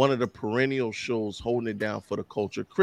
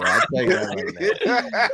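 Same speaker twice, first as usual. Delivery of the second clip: laughing; 9 semitones higher than usual. Real, not acted. Joke about a friend.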